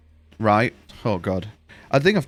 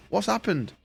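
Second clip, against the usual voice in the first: retold bewilderment; 7 semitones higher, 6 dB quieter than usual. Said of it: "I was like".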